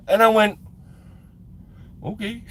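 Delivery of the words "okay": very soft, small "okay"; quiet, cowed little answer; meek reply. Retold or imitated. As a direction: give in meekly, barely audible. Meek reply to the man gripping him.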